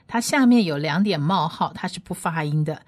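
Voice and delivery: ordinary talk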